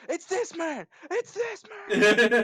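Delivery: loud, high crazed yelling; pain-med outburst. Pretend. Friend on pain meds blurting at the stream, crazed yell. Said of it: "You might just hear me shoot up".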